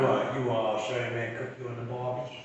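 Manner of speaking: lightly hammed-up Australian; mock Australian accent. Teasing a friend who loves Australian accents, mock Australian accent. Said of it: "You like the Australian accent?".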